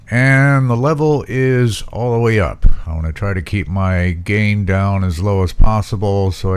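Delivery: hard p pops hitting the mic; popping p sounds. Real, not acted. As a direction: plosives popping into the microphone. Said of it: "Sorry for the popping".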